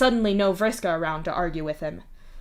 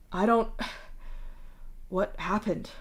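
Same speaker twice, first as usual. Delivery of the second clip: voice lost; 5 dB quieter than usual. Acted. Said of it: "his voice lost".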